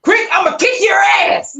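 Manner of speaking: high-pitched, loud mock threat; Sean. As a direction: imitate a friend yelling down the phone. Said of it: "here's my imitation of Sean".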